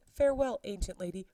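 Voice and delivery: a teasing singsong goodbye; mocking send-off to the nurse; mock farewell.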